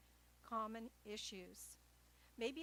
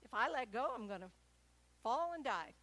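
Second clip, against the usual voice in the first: ego voice panicking; 10 dB louder than usual. Retold or imitated. The fearful ego clinging on, loud mock panic. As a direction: voice the ego's panic, loud and alarmed. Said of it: "ego-based thinking".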